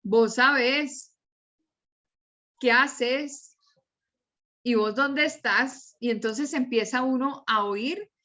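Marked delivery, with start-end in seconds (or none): 0.0-5.9 Cali voseo with stressed final syllables; spaced-out sample phrases in a Valle del Cauca accent. Shown as a demonstration. Teacher imitating how caleños talk, Cali accent. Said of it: "en Cali y en el Valle".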